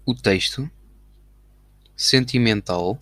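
slow, drawn-out dictation; slow dictating. Shown as a demonstration. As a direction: say each word as you type it. Dictating the message while typing.

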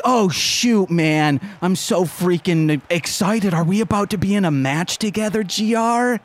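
high, eager fangirl chatter; Blarm. Acted. Fan asks G R about the match, high and excited. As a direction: rattle it out like a giddy little fan. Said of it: "Blarm's like".

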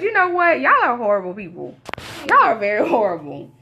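hammed-up indignation; mock scolding. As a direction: scold them through laughter. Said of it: "I said".

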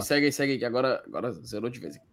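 hoarse voice fading out; losing the voice, words dying away; voice giving out. Real, not acted. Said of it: "Perdi a voz aqui".

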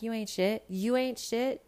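high sassy retort at the screen; telling off a reality star, high pitched; talking back to the TV. Retold or imitated. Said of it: "but I'm like".

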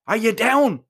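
ordinary delivery, nothing marked

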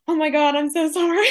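high, laughing mock apology. Answering people who say she doesn't sound Australian, laughing. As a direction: gush the sorry out through a laugh. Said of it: "And I'm like".

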